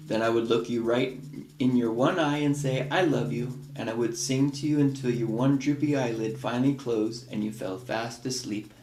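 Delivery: gentle picture-book read-aloud; reading to children. Acted. Parent reading a picture book to a child, storytelling voice.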